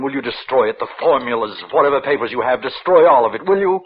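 pleading, building to a cry. Acted. Minister begging Victor to destroy his work, pleading building to a cry.

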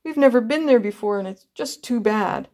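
lightly voiced boy, downcast; doleful little boy. A narrator's reading. Boy complaining to the passengers about missing Grandpa's, doleful.

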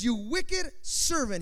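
high, drawn-out master's rebuke; stern condemnation. Acted. Master rebukes servant, read again.

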